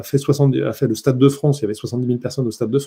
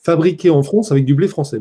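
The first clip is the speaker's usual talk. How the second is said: imitation d'un accent du Sud-Ouest de la France. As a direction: dis le slogan avec l'accent du Sud-Ouest. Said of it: "qui dit avec un accent du sud-ouest". (accent méridional imité, façon acteur de pub)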